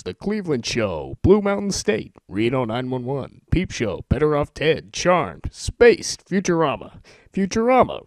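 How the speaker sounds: rushed excited title rundown; speed-reading titles. Shown as a demonstration. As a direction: list names breathlessly as they fly past. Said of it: "read from my Netflix instant queue as quickly as I can".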